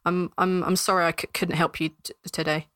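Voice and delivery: hesitant, apologetic stammer; faltering stammer; stammering guard. Acted. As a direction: stumble over the words as an apologetic guard.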